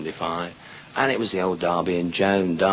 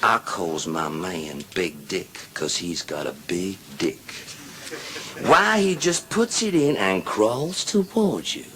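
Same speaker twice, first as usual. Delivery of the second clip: woman's brag voice; 4 semitones lower, 4 dB quieter, slower than usual. Acted. Second woman brags about husband.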